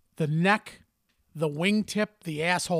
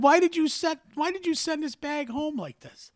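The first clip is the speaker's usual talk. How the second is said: higher, louder, exasperated disbelief; incredulous retold question; 10 semitones higher, 4 dB louder than usual. Retelling how he called his father about the bag, high and incredulous. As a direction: ask it like you can't believe he did that. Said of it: "I said".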